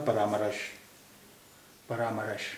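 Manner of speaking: "परामर्श" said pa-raa-ma-rash with an extra a after र; "परामर्श" stretched to paramarash; wrong full-ra reading. Shown as a demonstration. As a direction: put a vowel between र and श in "परामर्श". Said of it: "पूरा रा होता".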